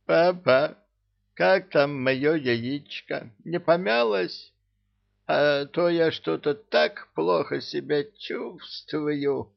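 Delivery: put-on tipsy, whiny drunk voice; slurring a little, hungover. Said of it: "пьяно икнул".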